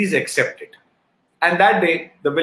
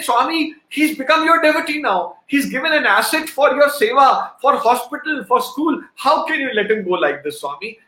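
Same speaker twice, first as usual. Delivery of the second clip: higher voice, begging Swami through tears; retold desperate plea, pitched higher; tearful pleading prayer; 5 semitones higher than usual. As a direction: plead with God as if your heart is breaking. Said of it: "And I pleaded and pleaded and cried and cried".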